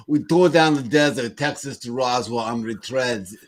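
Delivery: light mock Brooklyn accent. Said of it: "I'll read in my Brooklyn accent".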